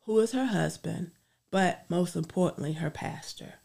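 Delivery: earnest spoken prayer. Acted. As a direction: pray it out sincerely. Leads a closing prayer.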